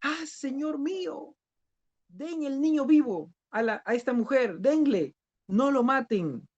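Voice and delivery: pleading mother's cry. Acted. True mother begging the king to spare her son, high pleading cry. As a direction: beg the king for your baby's life, pitched high. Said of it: "gritó".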